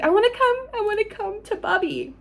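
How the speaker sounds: put-on high, eager little-girl voice; childlike excitement. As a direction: beg to go home like an excited child. Childlike excited retold quote.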